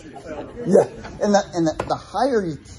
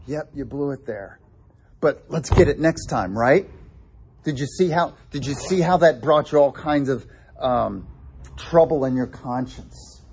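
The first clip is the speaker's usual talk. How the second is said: comforting father. Retold or imitated. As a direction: ease him back in, kindly. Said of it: "this is the comforting father that says".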